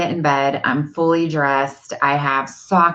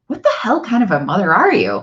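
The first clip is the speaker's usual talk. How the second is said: quick, higher-pitched reproach; mock self-scolding; 4 semitones higher, 3 dB louder, faster than usual. Mother's inner voice berating herself, mock self-scolding. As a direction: rattle off a higher-pitched telling-off.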